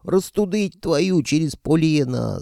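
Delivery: high, drawn-out yelp of a curse; indignant wail. A narrator's reading. Pelageya cursing as she is released, wailing. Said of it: "завопила Пелагея".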